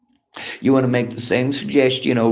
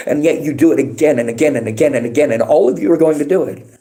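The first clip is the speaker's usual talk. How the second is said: faster and higher, anger rising; building anger; 4 semitones higher, 5 dB louder, faster than usual. Real, not acted. Streamer ranting at commenters who repeat themselves, rising anger. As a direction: let the frustration boil over. Escalating rant at chat.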